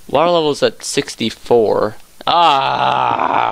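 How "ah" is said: long open "ah" cry; drawn-out cry. Real, not acted. Player alone in a cave, drawn-out cry. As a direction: let out a long, wavering "aah". Cries out while digging.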